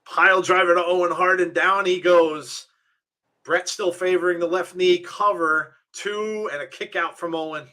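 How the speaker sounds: lively wrestling match call; energetic ringside commentary; play-by-play. Real, not acted. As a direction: call the action as it happens.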